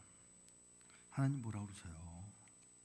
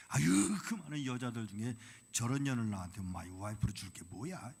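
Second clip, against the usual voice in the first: complaining; 7 dB louder than usual. Retold or imitated. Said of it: "불평 안 해본 남자분".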